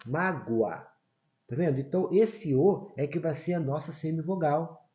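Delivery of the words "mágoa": "mágoa" pronounced MA-gwa; O sounding as U. Shown as a demonstration. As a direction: let the O in "mágoa" glide like a U. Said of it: "ele assume o som do U".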